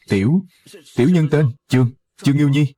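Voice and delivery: stammering, hesitant answer; a touch of nervous stutter; mild fear. Acted. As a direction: stumble timidly over your own name. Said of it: "Đứa trẻ sợ đến mức này".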